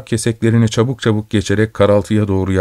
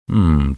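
low, thoughtful hum; düşünceli hımlama; 4 semitones lower than usual. A narrator's reading. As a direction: hum as if weighing it up. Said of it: "Öğrenci düşünceli düşünceli". (alçak perdeden düşünceli "hımm")

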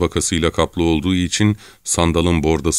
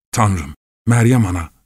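fearful prayer in a raised pitch; murmured prayer; 4 semitones higher, 3 dB louder than usual. Acted. Exhausted rower praying to Mary, anxious murmur. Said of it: "diye mırıldanıp duruyordu".

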